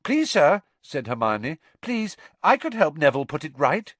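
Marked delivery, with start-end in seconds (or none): 0.0-0.6 high, loud, urgent plea; pleading pupil. Acted. 1.8-3.9 pleading pupil. Acted.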